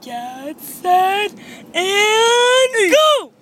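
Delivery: slow start building to a long shouted "go"; starter's countdown. Pretend. Restarting the contest countdown.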